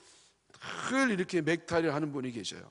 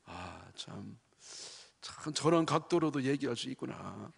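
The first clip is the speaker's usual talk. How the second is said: impressed listener; 4 semitones lower, 4 dB quieter, slower than usual. Retold or imitated. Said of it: "긍정적인 사람은 뭐라 그래요?".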